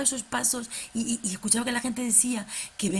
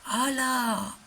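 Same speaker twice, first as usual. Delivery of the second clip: puppet voice; slower than usual. Acted. Fede the puppet greeting Tati, bright and excited. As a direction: bounce it like an excited kids' puppet.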